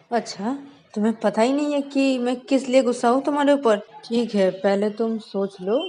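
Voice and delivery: loud, cold telling-off; angry scolding. Acted. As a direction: scold her and hang up. Shreya scolds Shruti on speaker. (गुस्से में डाँटना)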